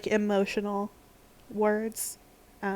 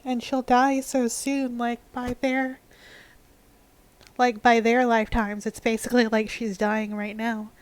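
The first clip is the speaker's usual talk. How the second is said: real sadness; 2 semitones higher than usual. Real, not acted. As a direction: talk through rising sadness. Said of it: "it makes me really sad".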